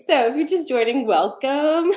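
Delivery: breathless and panting; talking while out of breath. Real, not acted. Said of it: "Why am I out of breath?".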